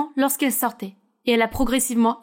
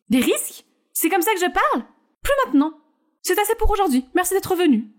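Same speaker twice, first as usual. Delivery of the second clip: lightly higher character voices; media training scene; 4 semitones higher than usual. Acted. Coach stops Scarlett's rehearsal, lightly higher voices.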